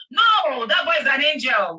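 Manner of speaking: shouting down the accusers; sharp shout. Real, not acted. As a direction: cut them off hard. Defending the boy.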